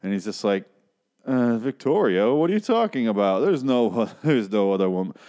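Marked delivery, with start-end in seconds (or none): 1.2-5.1 mock denial. Husband denies another woman to his wife, hammed-up protest. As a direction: play a badly faked denial, voice rising.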